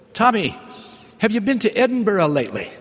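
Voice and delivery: put-on high, fast Scottish brogue of an old woman; broad Scottish accent. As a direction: imitate a thick Scottish brogue, quick and high. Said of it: "with her thick Scottish brogue".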